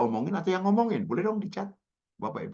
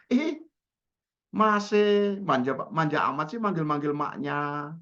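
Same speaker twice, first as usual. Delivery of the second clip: teasing joke. Retold or imitated. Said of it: "saya kan bilang, bercanda aja".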